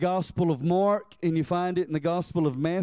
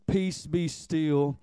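slow command; 4 semitones lower, much slower than usual. Acted. Jesus calming the storm.

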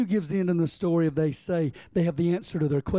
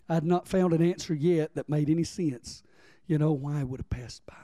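ordinary delivery

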